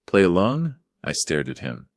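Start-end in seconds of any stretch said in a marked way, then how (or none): 0.1-0.8 incredulous. Acted. Incredulous echo.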